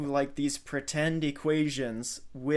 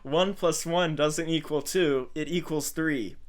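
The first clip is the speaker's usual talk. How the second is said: mimicking Steve Harvey. Host mimics Steve Harvey's punchline for listeners, lightly amused. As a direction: play up his punchline with a grin. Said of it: "the way he decided to say that was".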